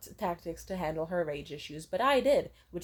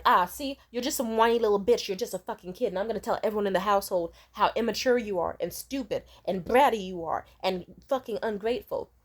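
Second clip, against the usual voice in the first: mocking mom. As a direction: belittle her like a scornful parent. Mom mocking daughter for crying.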